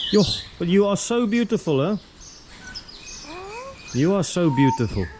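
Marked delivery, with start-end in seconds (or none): 0.1-2.0 higher, gushing over the bird; high cooing praise. Real, not acted. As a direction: coo the compliment up high. Admiring a bird.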